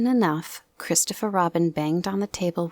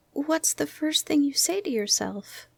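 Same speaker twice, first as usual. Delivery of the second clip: Piglet's voice; 10 semitones higher than usual. Acted. Piglet asks Pooh.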